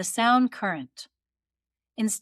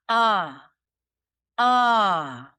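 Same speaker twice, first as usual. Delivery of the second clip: hard glottal attack, louder; 5 dB louder than usual. Shown as a demonstration. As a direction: punch the ah out hard. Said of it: "what we don't want to do".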